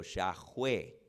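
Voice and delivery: "Yahweh" como "shaj-UÉ", con jota; pronunciación de Yahweh. Shown as a demonstration. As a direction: di "Yahweh" despacio, marcando la jota. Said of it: "Se pronuncia". ("Yahweh" con "sh" inicial y jota aspirada)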